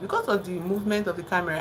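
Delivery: ordinary delivery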